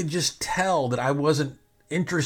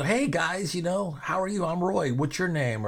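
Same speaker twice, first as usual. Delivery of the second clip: higher-pitched friendly self-introduction; 6 semitones higher than usual. Retold or imitated. Roy greeting wrestling writers he just met, friendly introduction. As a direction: introduce yourself lightly, pitched up and sociable. Reenacts introducing himself to fans.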